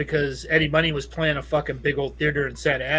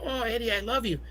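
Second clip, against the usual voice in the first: swooning fan; 6 semitones higher, 6 dB quieter than usual. Retold or imitated. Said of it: "she's like".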